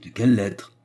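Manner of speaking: mildly puzzled question; surprised echo. A narrator's reading. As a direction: repeat it back, taken aback. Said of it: "répéta Anna surprise".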